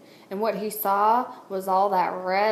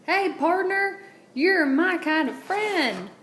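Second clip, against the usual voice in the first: mild shout; 9 semitones higher, slower than usual. A narrator's reading. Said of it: "and shouted".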